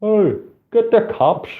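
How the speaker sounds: high, slow called-out yell from a bystander; mock shout. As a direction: call it across the street, mock shouting. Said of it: "shouts over".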